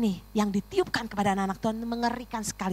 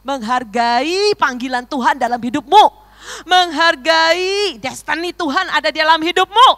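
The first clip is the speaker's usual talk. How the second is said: building exhortation; 6 semitones higher, 10 dB louder than usual. Real, not acted. Preaching, building point by point.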